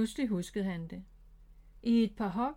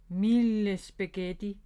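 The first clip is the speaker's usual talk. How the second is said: startled exclamation; 6 dB louder, slower than usual. Acted. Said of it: "sagde Bob".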